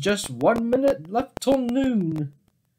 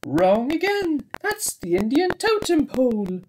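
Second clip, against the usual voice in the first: teasing correction; 8 semitones higher than usual. A narrator's reading. Narrator mocks the mistake.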